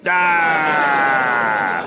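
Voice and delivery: long drawn-out "ah" wail; mock crying wail. Comic joking about a can't-stop-crying T-shirt, mock wail. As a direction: wail it out comically on one breath.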